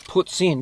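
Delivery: "puts in", said as two syllables with the stress on "in"; Quebec pronunciation of poutine. Shown as a demonstration. Explaining to Australian viewers how Quebec says it, Quebec pronunciation. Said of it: "something like the correct way".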